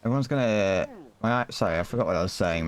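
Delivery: losing the thread, fading; words drift off mid-thought; trailing off. Real, not acted. Forgets what he was saying.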